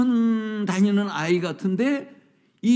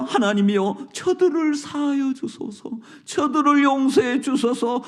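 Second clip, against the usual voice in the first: anguished prayer; 6 semitones higher than usual. Acted. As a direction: plead for their forgiveness from the cross. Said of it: "기도하십니다".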